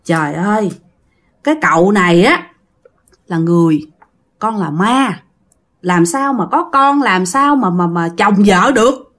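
mild, measured master's voice; gentle reasoning. Acted. Master reasons with a ghost, gently. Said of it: "ông thầy Bách cũng nhẹ nhàng lắm".

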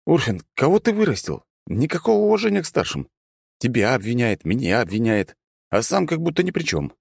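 high-pitched mock complaint; wry teasing. A narrator's reading. Hero easing tension with the god, teasing mock complaint. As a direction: tease with exaggerated, high-pitched grievance. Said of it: "усмехнулся я".

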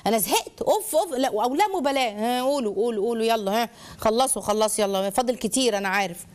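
huffy, fed-up muttered asides; bored child. Acted. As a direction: tune out a parent's lecture with impatient sighs. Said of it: "الملل ده".

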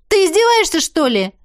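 high, loud angry burst; angry outburst. Acted. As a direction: snap at him in sudden anger. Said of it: "Вырвалась-таки злость".

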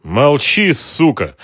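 loud menacing order; threatening. A narrator's reading. Ocheretin silencing Mara, loud and threatening. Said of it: "с угрозой произнёс Очеретин".

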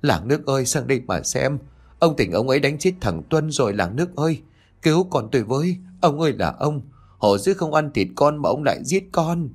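high-pitched narrated lament, no real sobbing; wailing for help. A narrator's reading. Mother crying to villagers over her son, restrained high wail. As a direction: call out to the villagers in high distress. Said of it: "bà gào khóc rồi la làng".

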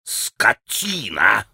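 drawn-out insult, held back in volume; slow, low-pitched mild yell; mock yell. A narrator's reading. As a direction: stretch the insult out slowly. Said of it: "заорал было пан Врублевский".

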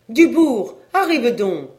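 wife calling her husband loudly. A narrator's reading. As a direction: shout for the husband from the next room. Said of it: "cette dame s'écria".

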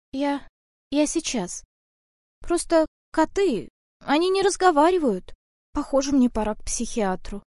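a hint of a rattled heroine; flustered girl. Varya shaken by talking cat. (слегка растерянный девичий голос)

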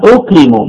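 "أكرم" said ukrimu, one glottal onset; single hamza with damma. Shown as a demonstration. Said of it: "بهمزة واحدة مضمومة".

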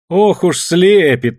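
woman mocking a man's compliment from the crowd. A narrator's reading. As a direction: tease him from the crowd. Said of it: "насмешливо отозвалась из толпы Таня".

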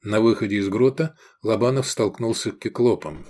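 ordinary delivery

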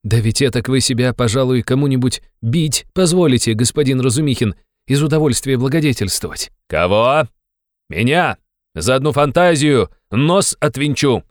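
high, loud insistent invitation; loud harangue. Acted. Razumikhin loudly insisting Raskolnikov come to his party.

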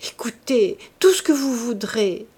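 husky half-whispered plea, still projected; murmured plea. A narrator's reading. Man begging the woman who refuses him, murmured plea. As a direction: plead in a pressed stage murmur. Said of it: "murmura-t-il".

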